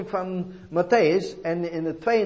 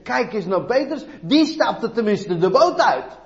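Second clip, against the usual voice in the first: raised pitch, slowing into heavy emphasis; preacher's rousing counter-quote; emphatic admiring exclamation; 6 semitones higher, 6 dB louder, slower than usual. Acted. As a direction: point him out with loud conviction. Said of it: "Nee, het is zeggen".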